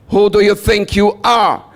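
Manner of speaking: slow cold challenge from an officer; stern officer. Retold or imitated. Acts stern teacher-like officer.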